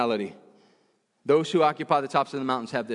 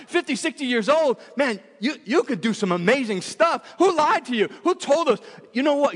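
higher, pressing challenge to the crowd; fired-up preaching; 5 semitones higher than usual. Acted. Pastor challenging the church about who lied to them, fired-up preaching. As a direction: demand an answer from the congregation.

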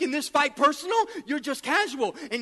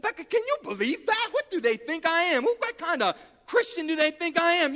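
higher, incredulous venting; offended; 4 semitones higher than usual. Retold or imitated. Preacher venting to Becca about the request, offended. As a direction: sputter in indignant disbelief. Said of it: "I mean, I was offended".

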